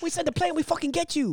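mock Asian accent. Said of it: "my accent".

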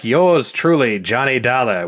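vocal fry-free gruff private eye bark; tough guy fifties voice. Retold or imitated. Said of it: "a tough guy nineteen fifties voice".

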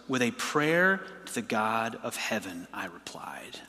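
hushed whisper, low and slow. Acted. Preacher reading Nehemiah's silent prayer, whispered. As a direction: breathe the words as a secret prayer.

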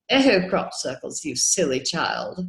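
slow, dismissive put-down; a lightly voiced scoff at a silly child; mock condescension. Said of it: "when people say".

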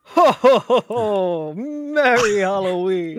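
booming jolly Santa laugh, slowed; big hearty ho-ho-ho, drawn out; Santa Claus voice. Acted. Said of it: "He's Satan Claus".

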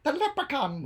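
high, excited echo; light up at a great idea; squealed agreement; delighted recognition. Real, not acted. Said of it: "That's a good one".

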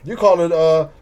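a hint of badly faked British; clumsy, lightly attempted British accent; horrible British accent. Man quoting someone from the UK, horrible British accent. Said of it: "that was a horrible British accent".

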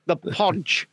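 "the Podge" for "Purge", a lightly Scottish vowel with rounded lips; Scottish accent. Shown as a demonstration. Mocking the Scottish way of saying the word, in a light Scottish accent. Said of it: "saying purge in a Scottish accent".

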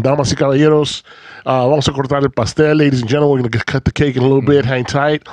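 bilingual MC announcement on the mic; lucha libre announcer. Retold or imitated. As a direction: announce it like a party DJ. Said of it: "doing my little bilingual thing on the mic".

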